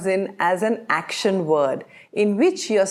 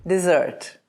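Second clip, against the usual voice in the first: American accent; 3 semitones lower than usual. Shown as a demonstration. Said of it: "American pronunciation".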